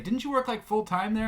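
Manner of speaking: high-pitched mock Charles voice; lightly mocking a friend's disbelief; imitating Charles. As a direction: squeak it up like an incredulous friend. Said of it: "He's like".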